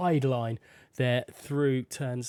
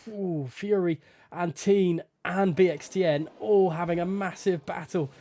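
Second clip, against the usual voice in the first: excited race commentary; 3 semitones higher than usual. Real, not acted. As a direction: get swept up in the overtake. Three-way battle called live.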